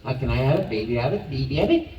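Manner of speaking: put-on lightly Italian-accented childlike pleading. Shown as a demonstration. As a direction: ask like a little kid with an Italian accent. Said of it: "with an Italian accent".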